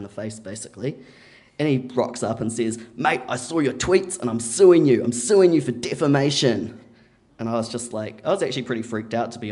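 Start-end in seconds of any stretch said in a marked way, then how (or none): 3.0-6.8 louder, raised, emphatic mock threat; retold legal threat. Neighbour rocks up threatening to sue, loud mock threat. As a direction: hit each threat hard, imitating an angry neighbour.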